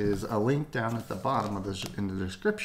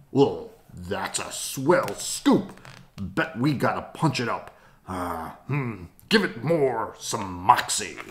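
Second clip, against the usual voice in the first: put-on old newsroom boss. Editor boss talks.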